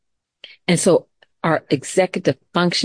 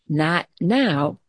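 calm voice. Shown as a demonstration. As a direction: say it like a leader who won't be rattled. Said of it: "with calmness".

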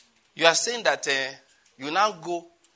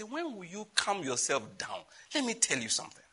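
quiet calm voice of God; 7 dB quieter than usual. Retold or imitated. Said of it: "and God say".

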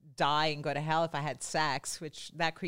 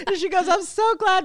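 excited retelling; 12 semitones higher, 8 dB louder than usual. Retold or imitated. Laughing retelling.

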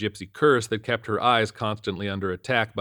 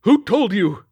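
high, loud demand; 12 semitones higher, 10 dB louder, slower than usual. A narrator's reading. Suspicious captain demanding an answer, loud and high. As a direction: snap the question at him. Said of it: "he demanded".

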